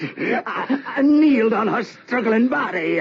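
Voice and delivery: high, laughing through the words; high manic laugh; mad laughter. Acted. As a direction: laugh like a madman. Mad laughter during the murder.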